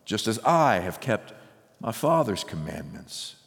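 measured, unhurried Bible reading from the pulpit; solemn reading of Jesus' words to his disciples; scripture reading. Acted. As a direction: read the passage with weight, stretching key words. Reads John 15 aloud.

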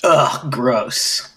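mock disgusted groan; playful grossed-out ugh; annoyed ugh. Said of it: "It makes you feel sick now?".

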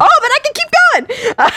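laughing through the words; high laughing reply. Real, not acted. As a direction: giggle it out. Laughing playful boast.

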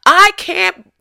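high, loud, slow, dragged-out dog plea; the dog giving up, drawn out; exasperated dog voice. Retold or imitated. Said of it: "This dog is like".

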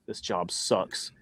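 low, slow mutter under breath; muttered aside. Retold or imitated. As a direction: grumble it quietly to yourself. Inner thought, muttered.

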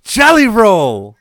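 high laughing yell across the room; R-Truth impression. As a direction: shout a singer's name like an eager goofball. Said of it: "R-Truth comes up like".

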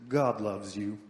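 attempted Southern preacher accent, pitched slightly down; Billy Graham. Pastor mimicking an evangelist's crusade opening, attempted Southern accent. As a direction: have a rough go at a Southern accent. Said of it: "I can't do a Southern accent".

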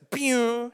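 quick "pew" of departure; imitated train zoom. Preacher imitating the train leaving, zooming "pew". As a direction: make a train whoosh with your voice.

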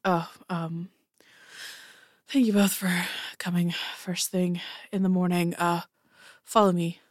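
a worn-out captain after a sleepless night. Acted. Tired captain voiced by GM.

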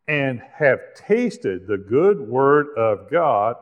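slow, deliberate Bible rereading; really slow reading. Real, not acted. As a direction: read scripture very slowly, with pauses. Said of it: "read this again really slowly".

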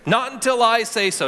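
pro wrestler voice. Acted. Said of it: "Doesn't that sound like a, you know, pro wrestler?".

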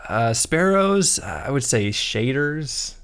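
slow, hesitant, lukewarm answer; unenthusiastic. Real, not acted. Co-host suggesting rewards, slow and unexcited. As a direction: offer the idea slowly, without much excitement. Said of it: "you don't sound very excited".

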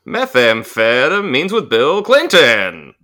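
swooping singer impression; mock-singer delivery with exaggerated pitch swoops; a singer. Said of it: "in the Fred Schneider voice".

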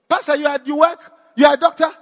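high, loud disbelieving questions; stunned to find her pastor is a surgeon; patient amazed her pastor is a doctor; astonished. Retold or imitated.

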